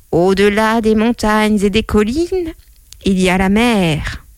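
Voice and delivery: lightly voiced old saying, stretched out; a hint of a great-grandmother reciting; great-grandmother's saying. Mother quoting her great-grandmother, lightly voiced recital. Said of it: "mon arrière-grand-mère qui disait".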